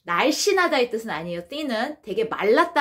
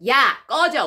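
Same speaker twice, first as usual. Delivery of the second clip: loud teasing "야! 꺼져!"; mock shout of disbelief; playful yell; 2 semitones higher, 5 dB louder, slower than usual. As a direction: yell it at a friend jokingly. Korean equivalent acted out.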